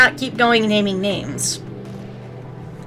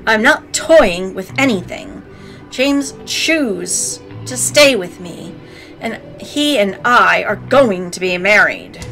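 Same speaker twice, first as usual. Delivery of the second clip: Karen voice; slower than usual. Acted. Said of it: "use your best Karen voice".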